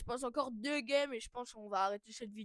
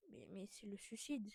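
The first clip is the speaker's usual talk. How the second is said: whispering; 6 dB quieter than usual. Real, not acted. Whispered aside during play.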